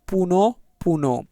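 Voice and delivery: পুন said slowly as "puu-no"; pronunciation demo. Shown as a demonstration. Teacher showing how we pronounce it, slow "puu-no" for পুন. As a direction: draw out both syllables of পুন. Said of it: "এইভাবেই কিন্তু উচ্চারণ করব".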